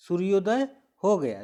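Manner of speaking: loud सूर्योदय हो गया, falling to a stop; stop after गया. Shown as a demonstration. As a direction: project सूर्योदय हो गया and close it off on गया. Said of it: "मतलब यहाँ भी रुका गया". (ज़ोर से, गया पर रुककर)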